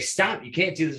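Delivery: high, urgent retold command; retold protest. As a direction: re-enact putting a stop to it, voice jumping up. Confronting the screaming woman.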